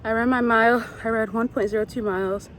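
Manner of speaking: panting between words after running; breathless, still catching her breath; gasping for air. Real, not acted. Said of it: "I'm so out of breath".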